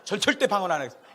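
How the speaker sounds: loud, laughing mock defiance; sulky refusal. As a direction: play a sulking child refusing. 하나님께 토라져서 하는 말. (웃으며 크게 토라진 척 거절)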